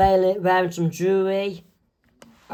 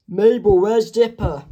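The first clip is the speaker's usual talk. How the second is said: calling out; 3 semitones higher, 5 dB louder than usual. Acted. Grunkle Stan calls Mabel.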